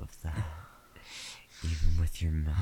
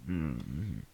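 whispering. Acted. Intimate whispered roleplay.

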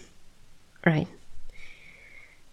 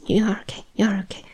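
soothing whisper; 3 semitones higher, much faster than usual. Acted. Reassuring the shaken human.

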